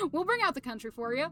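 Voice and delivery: light western country accent, a bit fast. Shown as a demonstration. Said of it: "it's kind of an odd country accent".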